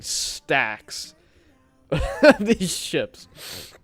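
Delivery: laughing through the words; amused laughing. Real, not acted. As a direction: break into a real laugh mid-phrase. Laughing at his pile of ships.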